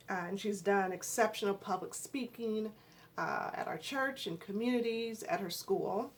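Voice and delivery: talking around a retainer; tongue stuck to the roof of the mouth; wearing a retainer. Real, not acted. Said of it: "I have a retainer in my mouth".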